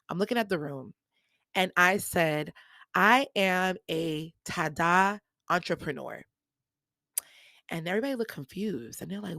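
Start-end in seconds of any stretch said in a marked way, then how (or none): 3.0-6.2 slow, deliberate proud announcement; bold declaration. Retold or imitated. Announcing herself to a room of business people, slow and proud. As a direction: plant each word like a big reveal.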